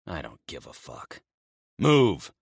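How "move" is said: sharp loud command; barked order. Acted. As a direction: bark the order at the prisoner. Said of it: "I order".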